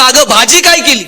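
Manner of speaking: mock shout with little extra volume; mock yell. Husband right behind his wife, mild mock yell. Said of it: "आणि जोरात ओरडला".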